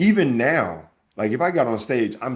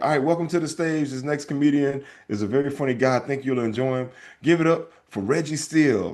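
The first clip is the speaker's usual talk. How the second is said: mock emcee; 3 semitones higher than usual. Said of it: "And then it's like".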